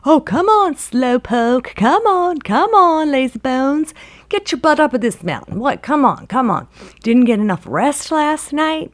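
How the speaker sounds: high, loud teasing holler; goading shout from above. Acted. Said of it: "starts hollering down".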